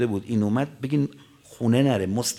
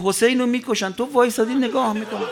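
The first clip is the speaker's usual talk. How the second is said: Zeynab's outcry; 10 semitones higher, 6 dB louder than usual. Acted. Zeynab confronts the commander.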